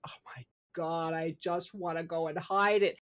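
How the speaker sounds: a soft, unvoiced whisper of panic; retold panicked whisper. Speaker recalls panic two days ago, whispering. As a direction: whisper it like you want to hide.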